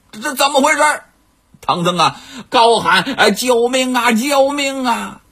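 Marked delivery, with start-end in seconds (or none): 3.2-5.2 hammed-up help cry. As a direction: call out in mock panic. Tang Seng snatched, calls for help.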